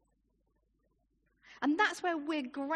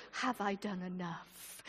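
soft, lower, slow and troubled; anxious old soldier; 7 semitones lower, 5 dB quieter than usual. Retold or imitated. Old soldier at the grave, softly asking in doubt. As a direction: ask it quietly, full of doubt. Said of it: "he's at the grave and he's going".

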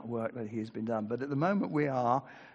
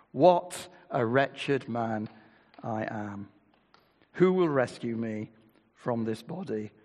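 scripture reading. Acted. Preacher to congregation, solemn scripture reading. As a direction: read Paul's words with weight. Preacher reads Romans aloud.

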